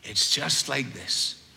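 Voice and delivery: lightly voiced old Irish man, gentle lilt. Old Irish teacher answering the young preacher, mild Irish lilt. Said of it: "in his little Irish lilting voice".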